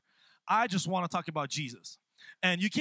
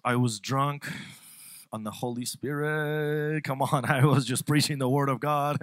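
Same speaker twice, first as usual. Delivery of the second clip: laughing reply; 4 semitones lower, 5 dB louder than usual. Retold or imitated. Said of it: "I'm like".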